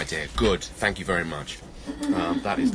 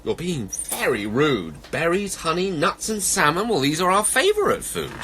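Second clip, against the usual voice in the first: higher, mildly indignant complaint; grumpy animals; 8 semitones higher, 3 dB louder than usual. Acted. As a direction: protest as offended little animals. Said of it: "the animals grew grumpy".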